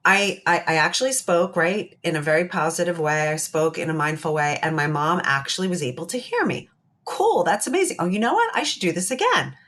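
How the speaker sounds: a daughter thrilled it worked with her mom; delighted surprise. Pretend. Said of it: "And she says".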